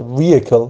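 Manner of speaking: "ویهیکل" as VEE-uh-kel, H silent; correct vehicle pronunciation. Shown as a demonstration. Teacher confirming the right form, pronouncing "ویهیکل" with silent H. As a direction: let the vowels meet in "ویهیکل", no H. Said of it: "تلفظ درستشه".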